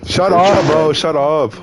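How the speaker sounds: excited. Real, not acted. Reacting to Freddy in disbelief.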